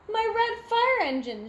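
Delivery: high, loud cry of alarm; shout. A narrator's reading. Smokey shouting at his pink engine. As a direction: shout it out in dismay. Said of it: "shouts Smokey".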